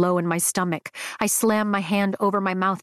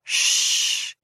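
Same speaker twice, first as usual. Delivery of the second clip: whisper. A narrator's reading. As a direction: hush him with a whispered shh. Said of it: "he whispers with a playful smile".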